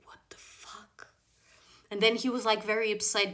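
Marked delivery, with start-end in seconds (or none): 0.0-1.1 whispered disbelief, drawn out; hushed, incredulous aside; stunned whisper. Retold or imitated. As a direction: slowly whisper it as a private reaction. Stunned inner reaction to policeman.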